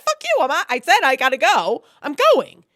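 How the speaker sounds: loud, high, angry comeback; loud, high indignant refusal; defiant retort. Retold or imitated. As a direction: bark it back at him, refusing. Voicing defiant reply to him.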